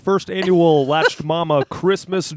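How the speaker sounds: game show host voice. Acted. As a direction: welcome the contestants like a host. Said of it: "Is that your game show host voice".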